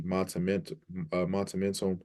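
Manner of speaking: "monumental" stumbled over with an extra t, like "mon-tu-mental"; mispronounced. Real, not acted. Unsure fan fumbling a big word, mispronouncing "monumental". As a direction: trip over "monumental", putting a t after "mon". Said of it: "I'm mispronouncing it".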